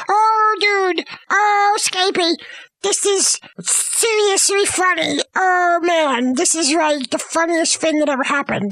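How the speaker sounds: stretched, put-on hilarity; mock amusement. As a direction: act out a man tickled by it all. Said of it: "he started laughing".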